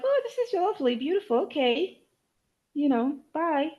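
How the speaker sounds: lightly high, airy mock visitor; breezy visitor. Light imitation of a visitor. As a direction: brush through it like a quick guest. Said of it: "it felt like someone was just like".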